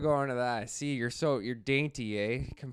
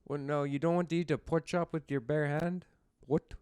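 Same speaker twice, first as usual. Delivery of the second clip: lightly put-on European English; mock European accent; 4 dB quieter than usual. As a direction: play a puzzled European speaking English. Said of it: "like a European trying to speak English".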